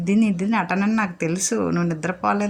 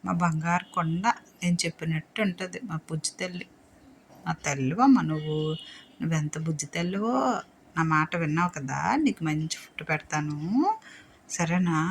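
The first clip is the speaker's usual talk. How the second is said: soft, low cooing; tender cooing; 3 semitones lower, 5 dB quieter than usual. Real, not acted. Owner cooing praise to her dog, soft tender.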